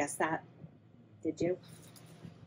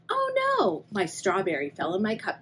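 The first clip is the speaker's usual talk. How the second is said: cried out. Acted. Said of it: "cried Pip".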